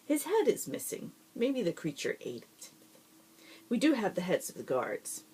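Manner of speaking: a lab boss thrilled about heads; gleeful Baron, delighted. A narrator's reading. Baron voiced, much higher.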